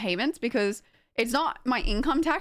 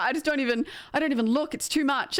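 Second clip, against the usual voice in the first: mildly higher, flustered retelling; imitated panic; 4 semitones higher than usual. Streamer quotes friend avoiding her emails, mildly panicked. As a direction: lightly act out an overwhelmed friend.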